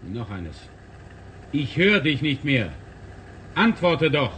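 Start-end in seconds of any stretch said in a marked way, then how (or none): 1.5-4.3 raised, pressing call for an answer; loud call. Acted. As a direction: push the voice out as if the line went dead. Pretending contact lost, testing.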